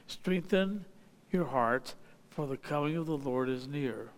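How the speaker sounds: measured, solemn Bible reading; scripture reading. Acted. Preacher reading James to the congregation, solemn scripture reading. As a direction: read the verses steadily to the congregation. Reads scripture passage aloud.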